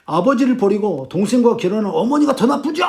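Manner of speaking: acted-out son talking back; mildly heated accusation at mother; defiant retort. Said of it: "막 어머니한테 막 대듭니다". (살짝 대들듯 따지는 말투)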